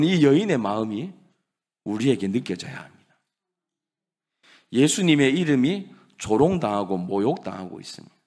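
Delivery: ordinary talk, nothing marked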